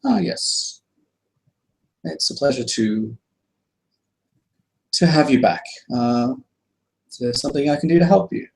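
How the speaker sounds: put-on high, polite old shopkeeper; welcoming the party back to the shop, high and courteous. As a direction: greet the customer in a lifted, genteel voice. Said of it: "He'll greet you and he'll say".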